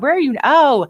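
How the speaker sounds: high excited squeal; delighted surprise. Real, not acted. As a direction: gush at the cute pirate ship. Host greets reporter's pirate-ship scene.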